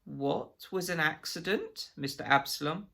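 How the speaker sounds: high, pleading, stammering voice; frightened Absalom. A narrator's reading. Absalom cornered by the agent, pleading high and frightened. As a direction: beg in a panicky, high voice.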